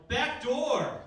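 high, loud mock battle cry; comedic yell. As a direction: yell it out as your signature move. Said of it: "I always yell".

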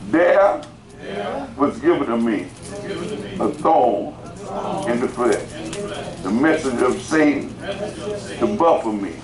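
scripture declaimed in short pieces with pauses; feed it to the congregation piece by piece; phrase-by-phrase reading. Shown as a demonstration. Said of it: "let me say it like this".

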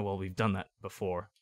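muttered aside, low and soft; under his breath. Retold or imitated. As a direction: say it quietly under your breath. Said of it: "under his breath goes".

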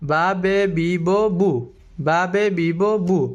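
বা, বে, বি, ব, বু chanted twice in a row, each syllable crisp and distinct; syllable drill. Shown as a demonstration. Teacher drills pronunciation practice for viewers, crisp chant. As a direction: drill বা বে বি ব বু as a repeat-after-me chant. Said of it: "আমরা প্রথমে উচ্চারণ করি".

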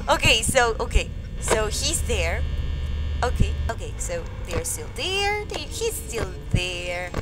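low, soft, nervous self-talk; wary hush. Real, not acted. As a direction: keep it hushed as if it might hear. Nervously watching the animatronic figure.

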